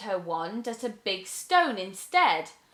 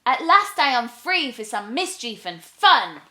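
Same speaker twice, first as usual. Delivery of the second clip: lightly voiced little witch, eager and gleeful; a hint of a cheeky young witch; 3 semitones higher, 7 dB louder than usual.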